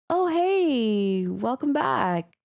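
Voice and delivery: imitating a brother acting casual; feigned nonchalance. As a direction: ask as if it hardly matters.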